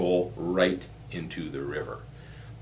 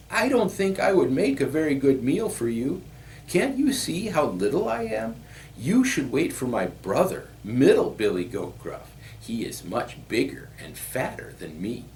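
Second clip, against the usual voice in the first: high little billy goat pleading; small high voice, talking its way out of danger; frightened little goat; 8 semitones higher, 3 dB louder than usual. A narrator's reading. Little goat persuading the troll to wait, high pleading voice.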